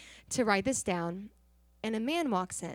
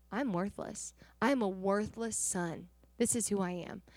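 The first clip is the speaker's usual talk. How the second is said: subdued, softer voice imitating his shame; ashamed; 4 dB quieter than usual. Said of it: "He was so ashamed".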